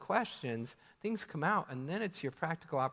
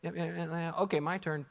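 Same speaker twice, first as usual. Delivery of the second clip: impatient fake listening; 2 semitones higher than usual. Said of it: "sit there and go".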